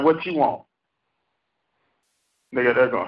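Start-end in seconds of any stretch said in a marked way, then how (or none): 0.0-0.6 suspicious wife reply. Retold or imitated. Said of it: "She's like".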